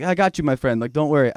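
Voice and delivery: lightly put-on Indian accent. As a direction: cab driver with a hint of Indian accent. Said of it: "I don't know why I did Indian".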